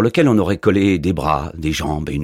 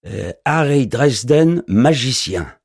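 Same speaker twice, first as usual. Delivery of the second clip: higher, slow, spelling out the sign with a puzzled rise; hesitant reading aloud; 8 semitones higher, 5 dB louder, slower than usual. A narrator's reading. Postman sounding out the door sign to the wizard, puzzled. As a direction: read the name like you've never seen it before. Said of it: "Vous lisez quoi sur ma porte?".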